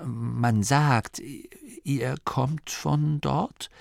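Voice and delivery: hesitant, halting and hopeful. A narrator's reading. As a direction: feel your way towards a hopeful question. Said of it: "Es klang hoffnungsvoll". (zögernd und hoffnungsvoll)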